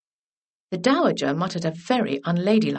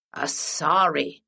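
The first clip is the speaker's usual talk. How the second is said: triumphant; 3 semitones lower, slower than usual. Acted. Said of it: "said the Dowager triumphantly".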